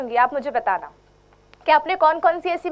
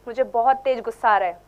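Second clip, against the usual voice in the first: angry demo; 6 semitones lower than usual. Shown as a demonstration. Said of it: "करके दिखाओ मुझ पे गुस्सा".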